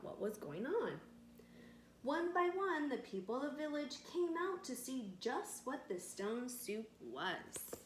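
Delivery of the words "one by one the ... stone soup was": lively read-aloud with voiced villagers; storytelling to children. A narrator's reading. Narrator telling children a village tale, bright storytelling. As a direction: read it like a bedtime story for kids.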